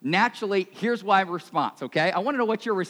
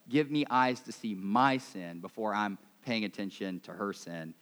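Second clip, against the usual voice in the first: humble prayer; 6 semitones lower, 3 dB quieter than usual. Shown as a demonstration. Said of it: "instead of saying".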